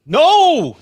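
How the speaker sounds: loud, high drawn-out "no"; one long, high yell; shouted no. Acted. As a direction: cry out in high-pitched protest. Mock horror at broken item.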